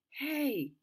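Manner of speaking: high call across distance. Acted. Girl calling from the trees to the passing Jeep, loud call. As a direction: shout to stop the driver.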